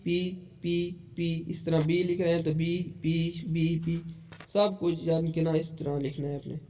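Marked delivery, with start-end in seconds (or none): 0.0-4.0 sounding out letters. Shown as a demonstration. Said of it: "बोल बोल कर आपने हर स्ट्रोक को लिखना है".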